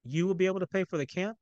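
cool, doubting question. Acted. Mother coolly questions son's offer. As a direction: let the doubt show. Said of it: "Ayanna asked coolly".

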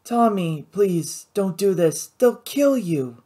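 put-on girl begging Tommy not to fight, softly accented; soft accented plea. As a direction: plead with him gently, slowing at the end. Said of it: "in a soft, accented voice".

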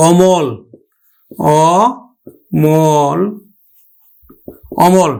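অমল stretched very slowly, open aw-mol; teacher models অমল slowly; drawn-out demo. Shown as a demonstration. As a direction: draw out অমল. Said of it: "উচ্চারণ করব আমরা".

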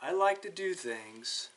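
a hint of the sloth, calm. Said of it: "and said".

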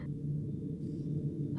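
long, soft breathy sigh; faint sigh. Acted. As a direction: let out a weak, airy breath. Princess starts feeling faint.

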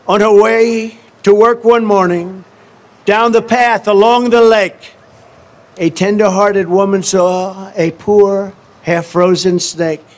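measured storytelling read, slowing on the snake; a slow, dramatic poem read; poem recitation. Acted. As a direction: recite it like a fable to the crowd. Reads the poem aloud.

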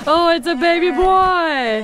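high, loud joyful cry; overjoyed announcement; excited. Real, not acted. Joy at birth.

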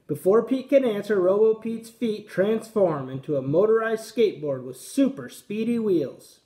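put-on lively read-aloud for young kids; story reading. A narrator's reading. PE teacher reading a picture book to young students, lively storytime voice.

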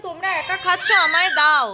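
high cutesy pleading voice; baby voice for pet. Pretend. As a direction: talk like a whiny little pet. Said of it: "অলি বলছে".

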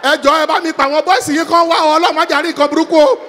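loud, fast frantic begging; man locked in his own lion cage begging loudly; panicked pleading. Acted. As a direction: plead with the police to hurry. Locked in cage, calling police.

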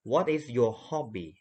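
very slow What is your hobby; slow model question. Shown as a demonstration. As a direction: read it word by word slowly. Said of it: "A จะเป็นคำถาม". (ครูอ่านคำถามช้าๆ ให้นักเรียนฟัง)

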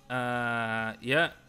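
normal talking voice

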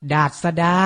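ดาษดา said carefully as dat-sa-da; careful teaching read of ดาษดา; pronunciation model. Shown as a demonstration. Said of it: "ออกเสียงพร้อมๆพี่ไทยให้ถูกต้อง".

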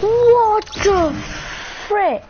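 high, loud what the frick; loud high cleaned-up swear; softened shocked exclamation. Real, not acted. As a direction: censor yourself mid-shock.

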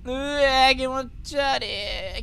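disgusted ew. Real, not acted. Reacting to gross game creature.

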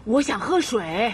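frail plea. Acted. Frail grandma asks for water.

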